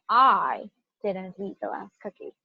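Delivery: slow, with "I" held long; single out "I" as not the culprit; stress on I. Shown as a demonstration. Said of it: "but it's not me".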